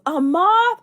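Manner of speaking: imitating the brother's loud scare from the window; sudden loud jump-scare. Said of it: "and he goes".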